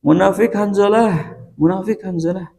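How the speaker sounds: acted exclamation, pitched high; high-pitched quoted accusation, settling slightly; high intonation. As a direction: quote the cry high, easing off on the repeat. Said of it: "intonasinya tinggi".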